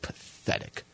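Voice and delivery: low, hushed, slow belch-like voice; imagined belched words. Acted. Tripping teen hears insults in friend's belches, slow low belch-voice. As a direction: let each word seep out slowly, low and quiet. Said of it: "I start hearing him go".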